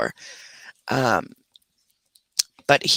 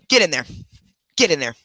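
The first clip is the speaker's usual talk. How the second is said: firm command; faster than usual. Real, not acted. Ordering dog into kennel.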